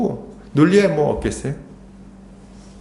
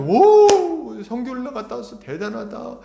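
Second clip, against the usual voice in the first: high-pitched ooh, raised admiring voice; imitated amazed praise; 6 semitones higher than usual. Preacher imitating people praising a returned missionary, amazed. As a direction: mimic someone marveling at a feat. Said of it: "놀라면서 칭찬하죠".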